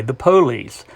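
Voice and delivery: "the police" with the stress moved to the front, PO-lice; southern stress. Shown as a demonstration. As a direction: hit the first syllable: "the POlice". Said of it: "people will say".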